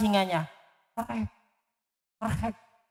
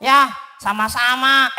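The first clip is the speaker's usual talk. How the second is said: Doraemon voice. Acted. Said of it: "itu suara Doraemon".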